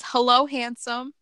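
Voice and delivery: slow, breathy greeting; breathy vintage purr. Retold or imitated. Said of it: "and says".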